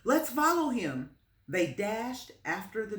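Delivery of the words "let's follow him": put-on high, loud eager boy; excited boy chasing his dog, high and loud. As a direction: rush them off after the dog. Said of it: "Benny was excited".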